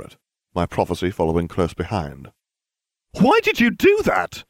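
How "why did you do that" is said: high alarmed cry; cried out. A narrator's reading. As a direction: Hermione cries out, alarmed. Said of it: "Hermione cried".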